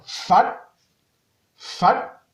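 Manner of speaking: "Fat" with the pitch sliding upward; rising tone. Shown as a demonstration. Teacher shows the montant tone, rising "Fat". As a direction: lift the voice through "Fat". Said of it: "ton montant".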